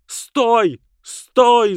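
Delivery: high, loud call to stop; shouting. Acted. Alicia shouts at the girl running off. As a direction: yell down across the street. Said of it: "закричала Алисия".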